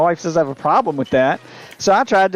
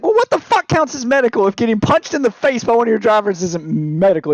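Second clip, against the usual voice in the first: higher-pitched indignant retold rant; pissed off; 4 semitones higher than usual. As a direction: argue back in exasperated outrage. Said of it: "I'm getting so pissed off".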